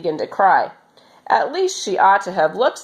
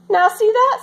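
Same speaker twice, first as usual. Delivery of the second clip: Pippi triumphant; 3 dB louder than usual. A narrator's reading. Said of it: "said Pippi".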